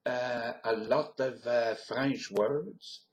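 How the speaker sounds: lightly put-on French accent, drawn out. Shown as a demonstration. Accent demo drifting through Europe, French accent. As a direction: speak English with a French accent.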